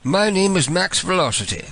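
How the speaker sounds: mock British caller; British accent. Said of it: "switch to my British voice".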